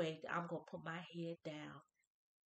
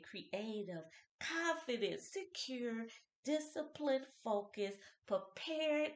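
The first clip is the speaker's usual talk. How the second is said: rhythmic, emphatic list of blessings; preaching a blessing; spoken blessing; slower than usual. Acted. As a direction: bless the listener, punching each word. Speaks blessing.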